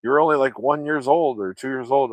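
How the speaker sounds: a hint of an incredulous mother; mom's disbelief. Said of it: "She's like".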